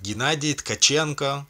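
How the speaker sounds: "Gennady Tkachenko" in a Russian accent, rolled and sharp. Shown as a demonstration. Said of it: "or in my Russian accent".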